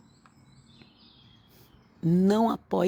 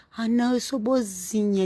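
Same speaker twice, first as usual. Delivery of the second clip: mock self-righteous believer; 2 semitones higher than usual. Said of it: "Então, se você diz".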